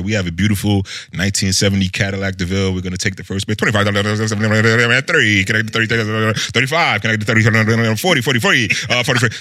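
fast auctioneer chant, rattling off bids. Retold or imitated. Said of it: "how did you learn how to talk like the auctioneer".

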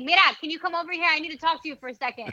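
quick, casual Spanish-tinged call to a player; her Bronx Latina accent. Retold or imitated. Reporter calling a player over in her Latina accent. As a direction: rattle it off fast in her everyday Latina accent. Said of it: "I stand out like a sore thumb with my accent".

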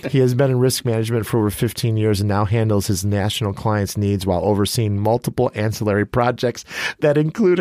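brisk read-out of a speaker bio; reading a bio aloud. Real, not acted. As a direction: read it out like a formal introduction. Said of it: "I gotta read it for you".

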